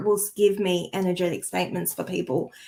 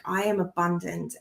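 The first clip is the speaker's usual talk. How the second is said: soft, with stress on "am" in "I am abundant"; gently felt, stressing "am"; heartfelt affirmation; 2 semitones lower, 6 dB quieter than usual. Shown as a demonstration. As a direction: say "I am abundant" softly, eyes closed, hand on heart, leaning on "am". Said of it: "I close my eyes and I hold my heart and I'm like".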